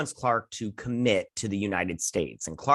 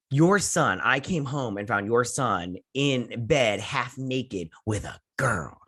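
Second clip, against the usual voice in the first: slow, emphatic mock accusation; drawn-out, scandalized retelling; indignant mother; slower than usual. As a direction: act a mom reporting a scandal. Upset mother reports to husband.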